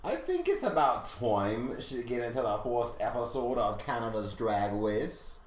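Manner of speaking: lightly put-on Canadian accent. Shown as a demonstration. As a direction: try a mild Canadian accent, slowing towards the end. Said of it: "That's my Canadian accent".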